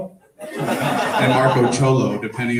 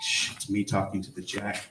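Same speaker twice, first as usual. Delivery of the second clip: librarian shushing whisper; 3 semitones lower, 8 dB quieter than usual. Retold or imitated. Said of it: "And she shushed me".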